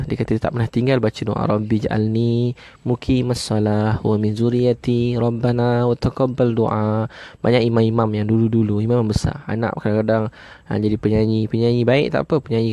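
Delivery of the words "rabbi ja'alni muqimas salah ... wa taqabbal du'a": slow, measured chanting of the Arabic prayer; slow prayer recitation. Acted. Preacher recites the prayer to the congregation, slow and reverent.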